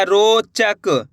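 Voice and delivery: रोचक stretched very slow, syllable by syllable: रो चक; drawn out slowly. Shown as a demonstration. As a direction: draw रोचक out so the class hears each sound. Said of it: "शब्द को सुनो आप किस तरीके से इसका उच्चारण हो रहा है". (रोचक बहुत धीरे खींचकर)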